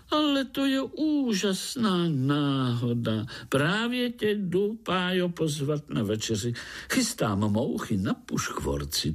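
high, chirpy frog voice rattling on; a gushing little tree frog who won't stop talking; tree frog babbling an invitation to dinner; chattering frog. Acted. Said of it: "brebentila pražská rosnička".

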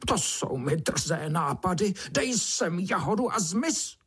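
high, squealing indignant beetle voice; a spoiled beetle squeals her outrage; high, haughty little beetle voice; squeaky beetle. A narrator's reading. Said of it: "broučice vypískla".

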